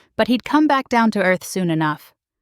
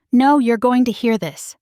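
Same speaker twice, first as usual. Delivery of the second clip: louder, shrill; 4 semitones higher, 4 dB louder than usual. Acted. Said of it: "my voice getting louder and more shrill".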